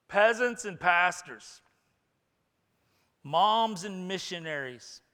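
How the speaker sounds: booming preacher voicing God; God the Father's commendation. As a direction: proclaim the praise from on high. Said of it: "when we hear the Father say".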